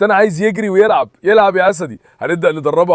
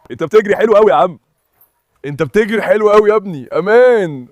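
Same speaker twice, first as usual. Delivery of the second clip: cheering praise; 4 semitones higher than usual. Real, not acted. Owner praising his dog for running well, cheering. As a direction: cheer him on as he runs.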